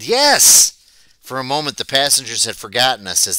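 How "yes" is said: high loud howl of pain. A narrator's reading. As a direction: howl it while your nose is pinched. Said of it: "I howled".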